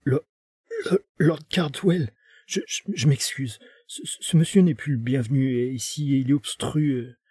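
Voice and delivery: flustered, stumbling stammer; frightened butler stammering before Lord Cardwell. Acted. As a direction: trip over every word, cornered. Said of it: "George bafouilla".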